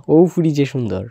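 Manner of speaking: put-on Sylheti compliment, ফুরি for girl; easy Sylheti praise; Sylheti dialect. Shown as a demonstration. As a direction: say it like a Sylheti local. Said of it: "Sylheti ভাষা".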